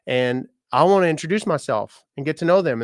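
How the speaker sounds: retold excitement. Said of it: "I was so excited".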